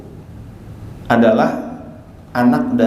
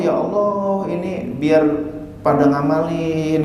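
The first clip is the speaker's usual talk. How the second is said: pleading prayer; 3 semitones higher than usual. Retold or imitated. Ustadz praying for his followers, mild plea. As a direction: gently imitate someone praying. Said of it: "berdoa kepada Allah".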